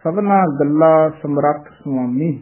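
ਗੱਲਾ with an open a, no nasal; ਗੱਲਾ plain ending; ਗੱਲਾ without nasal. Shown as a demonstration. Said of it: "ਗੱਲਾ ਹੀ ਉਚਾਰਨ ਕਰਨਾ". (ਗੱਲਾ ਬਿਨਾਂ ਬਿੰਦੀ)

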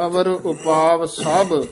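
ਅਵਰ ਉਪਾਵ ਸਭ read slowly, stopping after ਸਭ; slow phrase, then a full pause after ਸਭ; pause after sabh. Shown as a demonstration. Teacher showing where to pause in the line. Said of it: "ਇੱਥੇ ਵਿਸਰਾਮ ਲਾ ਦਿਓ".

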